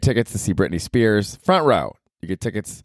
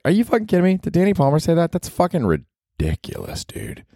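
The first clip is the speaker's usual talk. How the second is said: higher scoffing disbelief; mock disbelief; 10 semitones higher than usual. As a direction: scoff at Danny. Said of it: "other people are like".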